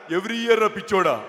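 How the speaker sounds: slow punchline in a lightly mimicked voice; వి Hanumantharao impression. Politician mocking the guest's question, mimicked. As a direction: stretch out the silly retort. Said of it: "Hanumantharao గారి bit ఒకటి చెప్పేసి".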